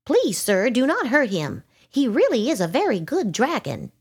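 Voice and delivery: high, pleading little voice; pleading ladybug. A narrator's reading.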